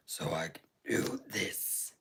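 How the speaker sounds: whispered, sneaky; mischievous whisper. Real, not acted. Seller whispers since mom can't scold her, hushed. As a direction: whisper it like getting away with something.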